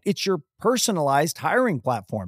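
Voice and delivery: host reading the sponsor message. Acted. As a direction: read the ad like a polished spot. Reads sponsor ad.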